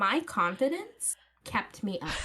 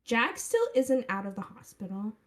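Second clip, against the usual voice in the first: put-on Valley girl accent; faster than usual. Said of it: "the Valley Girl accent is just peak".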